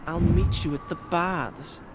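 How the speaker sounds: slow, high, bossy mimicry; mimicking the princess's command sarcastically; mocking imitation of her. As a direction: parrot her order with scorn. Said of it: "She orders me around".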